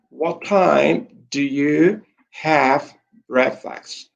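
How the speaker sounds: slow, careful teacher model of the question; slow model reading. Shown as a demonstration. Teacher reading aloud to class for pronunciation, slow and careful. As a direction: read it out slowly so the class catches the pronunciation. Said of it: "para que ustedes capten la pronunciación".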